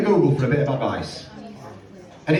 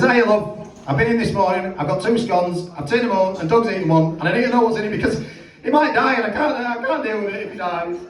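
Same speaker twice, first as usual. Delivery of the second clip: fast, pleading panic; panicking; 4 semitones higher than usual. Retold or imitated. Owner ringing the bakery about the dog, in fast mock panic. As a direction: blurt it out in a mild mock panic.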